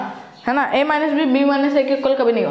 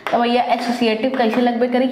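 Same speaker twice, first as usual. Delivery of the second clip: slipping into a light Bhojpuri turn of phrase; a hint of Bhojpuri dialect, said playfully. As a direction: say it in mock Bhojpuri, teasing the class. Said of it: "Bhojpuri है।".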